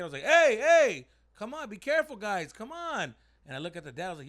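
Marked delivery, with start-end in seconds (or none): 0.2-3.1 loud high warning, easing slightly by the end; yelling at kids. Retold or imitated. Dad warning roughhousing kids to be careful, yelling. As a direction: call the kids to order, loudly. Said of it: "I yelled at the kid".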